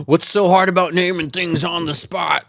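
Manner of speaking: mocking impression of a viewer; mocking quote. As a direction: parrot him sarcastically. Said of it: "quoting Will, mocking".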